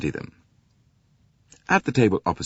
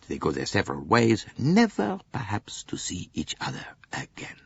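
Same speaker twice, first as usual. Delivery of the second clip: dreamy musing voice. Acted. Bouc muses on travellers.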